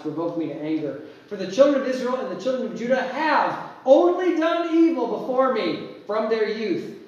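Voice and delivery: solemn King James reading, voice of the Lord; scripture reading. Acted. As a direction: read it like proclamation from the pulpit. Reads scripture aloud to congregation.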